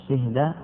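"شهد" as shihda, i on the shin; "شهد" closed up as shih-da; variant shihda. Shown as a demonstration. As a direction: say "شهد" with kasra, then sukun. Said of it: "أربع لغات".

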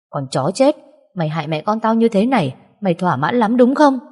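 hateful accusation, pitch climbing to the end; căm hờn. Acted. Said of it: "giọng nó đầy căm hờn". (giọng căm hờn, càng về cuối càng cao)

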